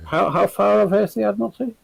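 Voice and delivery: loud, high call across the table; shouted question at the DM. Real, not acted. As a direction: raise the voice to be heard far off. Player calls out across table.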